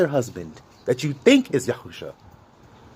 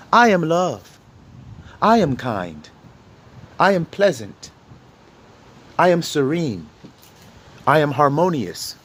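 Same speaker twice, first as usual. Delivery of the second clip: calm affirmation; slower than usual. Shown as a demonstration. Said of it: "When you start to say that".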